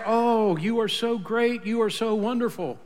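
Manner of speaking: gushing over Naaman in gentle sarcasm; mock flattery. Preacher mocking Naaman's expected praise, lightly fawning. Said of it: "expected Elisha to come out and be impressed".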